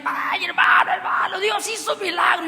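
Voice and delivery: retold shouting. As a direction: call it out like rushing in with news. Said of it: "gritando literalmente".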